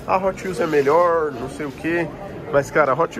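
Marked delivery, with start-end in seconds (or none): 0.1-2.1 hammed-up quote of a rival fan's argument; mock fan objection. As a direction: mimic someone dismissively, stretching the words. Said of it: "Você pode falar".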